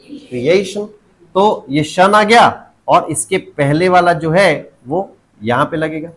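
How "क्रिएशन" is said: क्रिएशन with a long stressed middle "AY". Shown as a demonstration. Teacher repeats the answer, क्रिएशन with stressed "AY". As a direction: say क्रिएशन as "kree-AY-shun". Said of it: "क्या लगेगा?".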